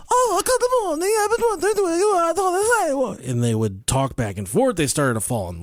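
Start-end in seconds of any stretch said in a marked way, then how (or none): 0.1-3.2 put-on very high girly greeting; high sweet maiden. Celine voiced, very high.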